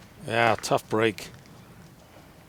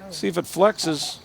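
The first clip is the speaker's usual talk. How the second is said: rising, louder live call; excited call; 6 semitones higher, 6 dB louder than usual. Real, not acted. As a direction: call the flight as it happens. Live call of a flying shot.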